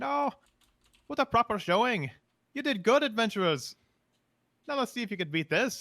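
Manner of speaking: put-on very high-pitched fairy voice with Irish accent. Recounting an adventure, the speaker quotes the Fae they encountered: Irish accent. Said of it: "He was uh talking in an Irish accent".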